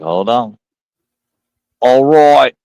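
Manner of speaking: lightly put-on Australian voice; Australian accent. Imagining a friend's text-to-speech Australian voice, put-on Australian accent. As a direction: do a mock Aussie accent. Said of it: "He could do an Australian voice".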